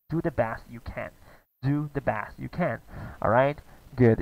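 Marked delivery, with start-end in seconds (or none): 0.1-2.8 slow model line. Shown as a demonstration.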